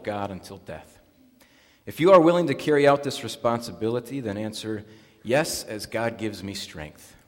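measured, solemn liturgical delivery; formal baptism liturgy. Acted. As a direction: pronounce the rite formally to the congregation.

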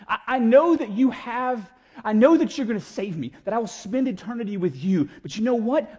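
acted pleading, pushing the point; mock insistent protest. Believer telling God what they cannot trust, mock insistent protest.

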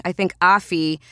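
normal talking voice

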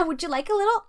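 high, sing-song mock white lady; a light put-on white girl voice. Chicana mocking a white seller of fried worms, mock voice. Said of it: "I'm gonna put my white voice on".

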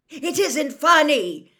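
slow, loud, high-pitched shout; angry father yelling; furious shout. A narrator's reading. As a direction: shout each word in exasperation. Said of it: "Mister Weasley shouted".

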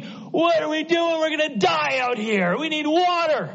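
mock crowd crying out for water; mock panicked scream. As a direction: play the grumbling crowd in a panic. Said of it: "they're screaming".

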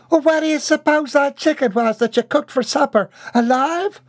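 high, loud and indignant twang; indignant country servant. Acted. Bobby Sue arguing back at the cook, high and loud. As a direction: throw it back at her, sassy.

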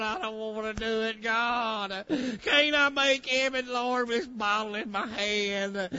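lightly voiced whining drunk, bargaining; a hint of a wheedling sinner; mock whiny pleading sinner. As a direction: plead with God like a sulking addict. Mock whining drinker bargaining with God.

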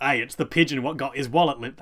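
hammed-up Cockney copper; Cockney accent. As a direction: play a cop in broad Cockney. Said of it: "I'm just doing the Cockney again".

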